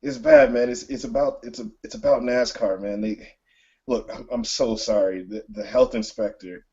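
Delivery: a tearful friend calling on the phone, choked up; choked up Phil. Acted. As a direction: sound like you've been crying, pitch up. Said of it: "He's choked up".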